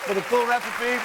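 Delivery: talking through a mouthful; mouth full. Real, not acted. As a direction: say it while chewing food. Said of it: "I'm talking with my mouth full".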